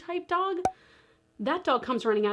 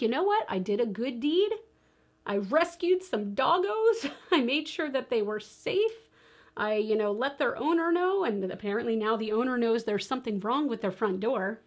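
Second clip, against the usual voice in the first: overly dramatic. Retold or imitated. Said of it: "I'm obviously being quite overly dramatic".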